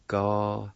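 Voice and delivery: Ga-sa-tin, said as three clear syllables; pronunciation demo. Shown as a demonstration. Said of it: "it's pronounced like this".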